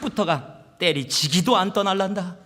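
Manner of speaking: imitated Gyeongsang accent, punchy; amateur Gyeongsang speech with heavy emphasis; Gyeongsang dialect. Shown as a demonstration. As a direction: put on a thick Gyeongsang dialect. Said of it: "이 원래 말로 해야 되는데".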